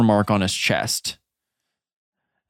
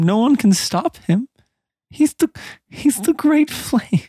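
fanatic zeal; 10 semitones higher than usual. Acted. Fanatic NPC praising his god.

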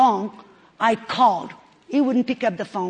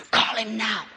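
urgent inner voice; 3 dB quieter than usual. Retold or imitated. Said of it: "that little voice that says".

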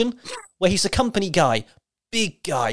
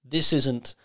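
put-on serious babyface promo; 5 semitones lower, 3 dB quieter than usual.

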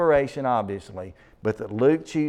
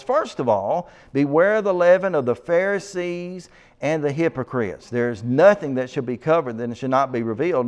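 brisk, raised-voice Bible reading; scripture reading; 2 semitones higher, 3 dB louder than usual. Acted. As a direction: read scripture out to a congregation, pressing on. Reads scripture aloud.

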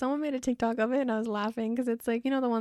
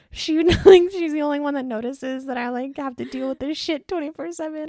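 laughing while quoting; 6 semitones higher, 10 dB louder than usual. Retold or imitated. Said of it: "busts up laughing 'cause he's just like".

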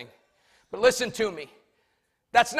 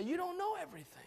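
gentle, much softer; said nicely; 9 semitones higher, 12 dB quieter, much faster than usual. Shown as a demonstration. Congregation told to say it nicely to a neighbour, gentle teasing. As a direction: say it kindly to your neighbour. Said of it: "Now do it nicely".

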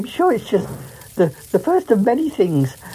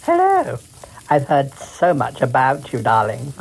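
Queen voice; 4 semitones lower than usual. Acted. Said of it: "I got to play the Queen".

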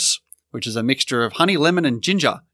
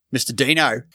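Australian accent. Shown as a demonstration. Co-host asked to do it Australian, understated Australian accent. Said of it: "do it in an Australian accent".

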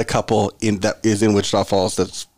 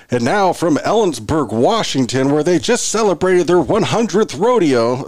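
slow, drawn-out arena announcer; 5 semitones higher, slower than usual. Retold or imitated. Pregame announcer shouting out the hometown rodeo, big announcer voice. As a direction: play the game announcer, pitch lifting as it goes. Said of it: "I'm doing my announcer voice".

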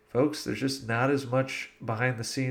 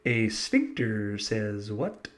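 slow quote; 2 semitones lower, much slower than usual. Shown as a demonstration. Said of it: "simply say either".

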